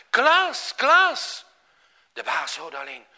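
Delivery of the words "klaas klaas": loud, high call of a name. A narrator's reading. Skipper calls Klaas through the storm, shouting. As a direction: shout the name over the waves. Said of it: "En hij roept het nog".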